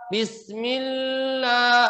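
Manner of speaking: Bismillah with the lam held very long; wrong drawn lam. Shown as a demonstration. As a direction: stretch the l in Bismillah too long. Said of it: "Ah, tidak".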